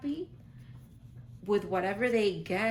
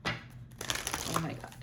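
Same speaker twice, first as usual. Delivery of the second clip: slow, hushed whisper; awed whisper; 3 semitones lower, 7 dB quieter, much slower than usual. Real, not acted. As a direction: whisper it slowly in amazement. Awed by her favorite card.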